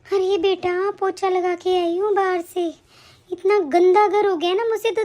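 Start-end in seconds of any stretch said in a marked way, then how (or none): 0.1-2.7 mock out of breath. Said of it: "ऐसे क्यों हाफ रही हो आप?".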